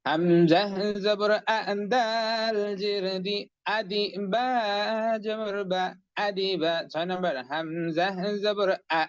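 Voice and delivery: slow sing-song syllable chanting; recitation drill. Shown as a demonstration. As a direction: chant each syllable slowly for the class. Teacher leads syllable recitation drill.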